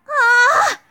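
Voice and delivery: high, loud, drawn-out mock rage; hammed-up furious shriek, breaking into laughter; angry Mashu. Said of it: "I can't do the angry Mashu voice".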